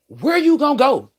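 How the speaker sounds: mock the trapped driver; taunting repo lady. Repo lady taunting her, loud mock sneer. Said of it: "She said".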